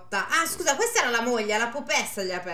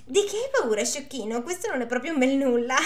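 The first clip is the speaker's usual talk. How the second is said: teasing wife; 3 semitones higher than usual. Acted.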